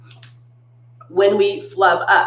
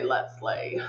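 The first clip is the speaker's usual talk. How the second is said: breathy whispered slay; 11 semitones lower, 13 dB quieter than usual. Shown as a demonstration. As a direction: whisper the word slay playfully. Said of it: "let's say".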